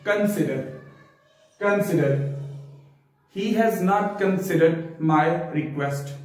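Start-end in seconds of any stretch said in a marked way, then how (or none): 0.1-2.3 कंसीडर with the first vowel a short 'kun', not 'kon'; correct pronunciation demo. Shown as a demonstration. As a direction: say कंसीडर as a teacher's model, kun-SI-der. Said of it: "हम इसको यू में लेंगे कन". (कंसीडर का सही उच्चारण, 'कन' से शुरू)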